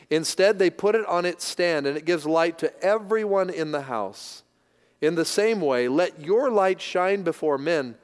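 measured, slightly slowed Bible reading; scripture reading. Acted. Pastor reading scripture to the congregation, measured and deliberate. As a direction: read the verses with weight.

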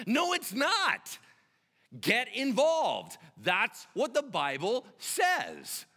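high, loud, drawn-out words; emphatic, slow preacher's correction; forceful rebuke. Real, not acted. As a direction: hammer each word slowly and loudly. Rebuking the congregation.

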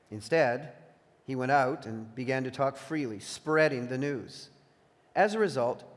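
measured, emphatic Bible narration; scripture reading. A narrator's reading. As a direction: read the Gospel aloud with deliberate phrasing. Reads scripture aloud.

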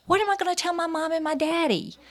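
high, loud, rushed cry of dismay; panicked wail. Retold or imitated. Shocked mother to doctor at twin news, panicked wail. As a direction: blurt it out in a high retold panic. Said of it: "I literally screamed out and started crying".

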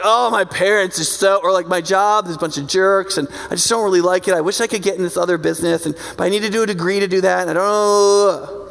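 rushed, grumbling about job and parents; mock frustrated gripe; whiny complaining. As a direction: complain in a hurried, fed-up tumble. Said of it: "you're like".

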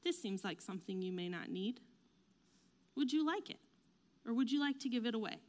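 gentle, careful psychologist suggesting; nicer. Acted. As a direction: offer it softly and tactfully, no pressure. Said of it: "They say it nicer".

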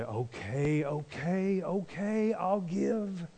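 grudging okays, soft and sighing; reluctant giving. Retold or imitated. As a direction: give in like it hurts. Mocked reluctant giver.

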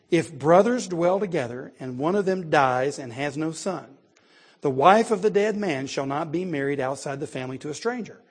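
measured, emphatic Bible reading; formal pulpit reading with weighted key words; scripture reading. Acted. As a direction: read the law aloud to a congregation. Reads scripture aloud to congregation.

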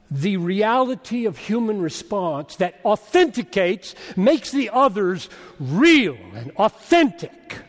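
forceful sermon delivery building in pitch; emphatic preaching. Real, not acted. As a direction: press the question home with heavy stresses.

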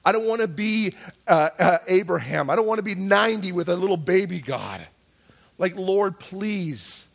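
frustrated begging, mildly acted; angry prayer. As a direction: protest to God with some heat. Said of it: "I would get so angry with God".

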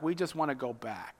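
low whispered moan; whining whisper. Acted. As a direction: sigh it out like a weary complainer. Israelites grumble to Moses.

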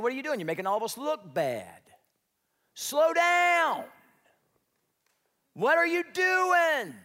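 high, loud mock yell of annoyed workmates; angry coworkers yelling; scolding coworkers. Coworkers scolding young worker.

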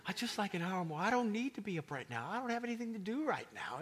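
preacher mock-begging God to sleep longer; sleepy pleading. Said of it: "everything within me says".

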